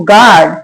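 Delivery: गार्ड said as "gaard", no U sound; silent U. Shown as a demonstration. Teacher reading out the spelling for learners, गार्ड with silent U. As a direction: model गार्ड with the U left silent. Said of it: "यू को नहीं पढ़ेंगे".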